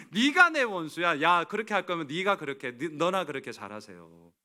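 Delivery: mock indignant retort. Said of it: "저 같으면 이렇게 할 거예요".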